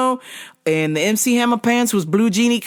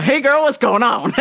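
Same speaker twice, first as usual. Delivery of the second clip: laughing greeting; 8 semitones higher, 4 dB louder than usual. Retold or imitated. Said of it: "So I was like".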